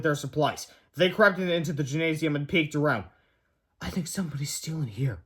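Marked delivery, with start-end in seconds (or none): 3.8-5.2 whispered. A narrator's reading. Harold hushing George in the dark gym, whispering. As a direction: keep it down so nobody hears. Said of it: "whispered Harold".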